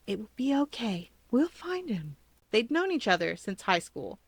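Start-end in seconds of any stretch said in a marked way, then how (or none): 0.1-2.2 reassuring best friend; murmuring. A narrator's reading. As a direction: comfort a tearful friend.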